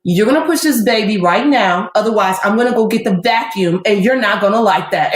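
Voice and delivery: put-on firm warning, light New York accent. Doctor ordering the mother to push, mild New York accent. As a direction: lay down the law with a New York touch. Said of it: "in her New York accent".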